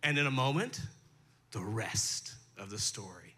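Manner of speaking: put-on a light take on an old radio host's sign-off; lightly voiced radio announcer; Paul Harvey. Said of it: "Paul Harvey used to say".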